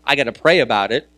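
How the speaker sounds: lightly voiced believer, calm and sure; believer's faith talk. Pastor showing how believers talk, lightly voiced. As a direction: speak it like a steady believer sharing faith. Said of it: "We talk like this".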